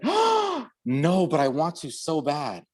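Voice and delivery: high, squealing eager voice; eager answer. Retold or imitated. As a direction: squeal that she wants it. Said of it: "She was like".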